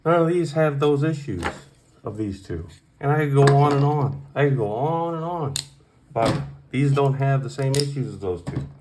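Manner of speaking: worked-up knife reviewer venting; getting hostile. Real, not acted. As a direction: build into an irritated rant. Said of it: "I'm getting a little hostile".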